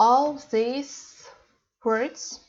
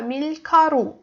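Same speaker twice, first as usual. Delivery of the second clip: "밀가루" with the weight on final 루; stress on 루; 3 semitones higher, much faster than usual. Shown as a demonstration. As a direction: lean on the last syllable of "밀가루". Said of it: "The stress is on 루".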